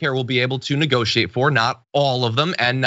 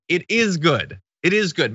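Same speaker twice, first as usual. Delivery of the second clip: IS lifted higher in pitch; stress on IS; 5 semitones higher than usual. Real, not acted. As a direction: insist on it, leaning on "is". Insists after admitting to sarcasm.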